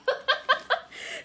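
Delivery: high, loud burst of laughter; excited laugh. Real, not acted. Laughing after celebrating the bag.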